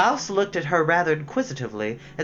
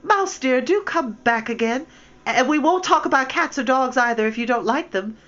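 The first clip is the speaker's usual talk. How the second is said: called softly; 9 semitones higher, 3 dB louder than usual. A narrator's reading. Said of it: "So she called softly after it".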